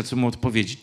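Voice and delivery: plain reading voice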